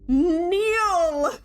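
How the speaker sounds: sharp, high, loud royal command; commanding queen shout. Acted. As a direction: bark the order like a cold queen. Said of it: "the single word that falls from her lips".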